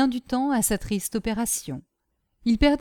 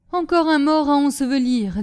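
loud, higher-pitched grumble; grumbling scolding; 6 semitones higher, 6 dB louder than usual. A narrator's reading. Nanon walking in on another dead body to lay out, grumbling. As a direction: scold them as you come in. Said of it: "d'un air grondeur".

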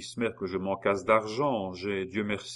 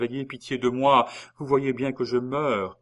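louder, higher desperate plea; crying out; 5 semitones higher, 6 dB louder than usual. A narrator's reading. Geneviève crying out to her husband for pity. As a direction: cry out for mercy. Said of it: "s'écria Geneviève".

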